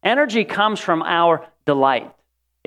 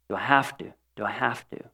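muttered grumble; 5 semitones lower, 9 dB quieter than usual. Retold or imitated. Muttered repeated complaint.

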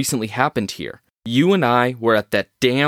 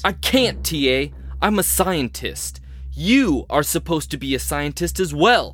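desperate protest; 5 semitones higher than usual. Acted. Anderson protesting in a heated argument.

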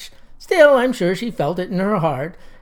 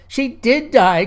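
mock crying girl; 5 semitones higher, 4 dB louder, slower than usual. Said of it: "cried Elizabeth Lee Pinedorf".

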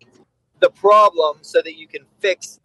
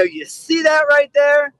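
pointed question; 9 semitones higher, slower than usual. Retold or imitated. Trainer points out dog's targeting.

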